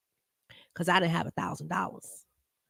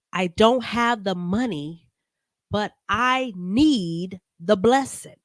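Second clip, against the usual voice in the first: louder, slow plea from a broke churchgoer; pleading churchgoer; 2 semitones higher, 5 dB louder, slower than usual. Retold or imitated. Vlogger voices a broke churchgoer begging for a blessing, slow and pleading. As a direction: beg for the blessing you can't pay for.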